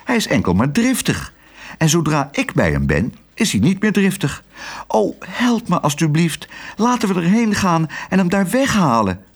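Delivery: put-on high-pitched, indignant child's plea. A narrator's reading. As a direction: protest indignantly, then plead for help. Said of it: "zei Otje verontwaardigd". (verontwaardigd en smekend, hoog)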